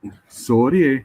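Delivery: put-on a light Scottish accent on a quick apology. Host asks the speaker to try it, a mild Scottish accent. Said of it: "is that a Scottish accent".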